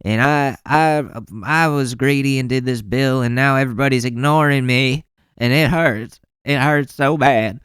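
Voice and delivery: mocking the administration as a greedy crybaby; mock whiny politician. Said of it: "But you're like".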